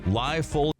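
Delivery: usual speaking voice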